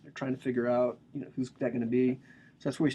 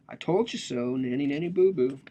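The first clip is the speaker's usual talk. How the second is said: mocking taunt. Jeering at the exiles in a sing-song taunt. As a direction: rub it in like a schoolkid. The people mocked with told-you-so.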